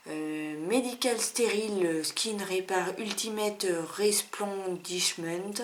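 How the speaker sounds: slow English with a heavy French accent. Real, not acted. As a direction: read the English label slowly with French pronunciation. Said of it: "avec mon très bel accent anglais".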